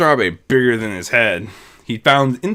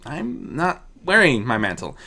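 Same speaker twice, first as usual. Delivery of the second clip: frowning. Acted. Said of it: "pointed out with a frown".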